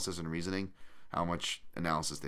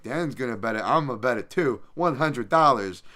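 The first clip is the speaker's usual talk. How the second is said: mock-excited, louder and higher; reckless follower; 5 semitones higher, 9 dB louder than usual. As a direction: imitate an eager bettor getting carried away.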